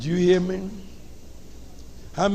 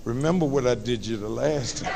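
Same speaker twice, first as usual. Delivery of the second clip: lower, softer, a hint of threat; quiet mama menace; 6 semitones lower, 6 dB quieter than usual. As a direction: remind him quietly, with a touch of menace. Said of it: "the historical point she brings out".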